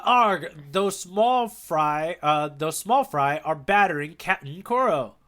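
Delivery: pirate voice. Pretend. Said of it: "say it one more time".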